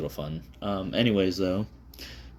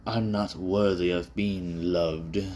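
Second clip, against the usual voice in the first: slow, drawn-out mock melodrama; mock dramatic self-pity; slower than usual. Mocking the dramatic lonely-guy cliché, slow and overdone. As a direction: play the tragic loner with a wink. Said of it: "you know, dramatic".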